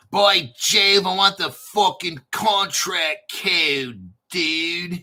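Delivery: loud, slow exasperated yell; frustrated shout. Real, not acted. Hunting for the contract code, shouting in frustration.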